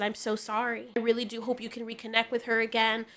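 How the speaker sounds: softly retold heartfelt apology; gentle sincerity. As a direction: console him quietly and sincerely. Retold sincere consolation of homeless man.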